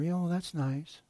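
a light chirpy tone that shrugs it off; lightly voiced, breezy churchgoer; mock casual. A hint of a flippant churchgoer telling a friend about a prophecy. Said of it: "they just kinda sit there".

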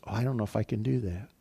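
soft, quick acted self-doubt; doubtful thought. Preacher voicing a listener's doubt about a task, soft and hurried. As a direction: toss it off softly, like a hesitant private thought.

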